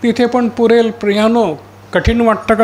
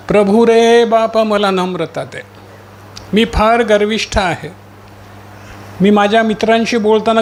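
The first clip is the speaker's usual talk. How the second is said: humble plea, each line starting raised and sinking; pleading prayer. Shown as a demonstration. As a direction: confess and beg the Lord for humility. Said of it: "नम्रतेसाठी आरोळी करशील".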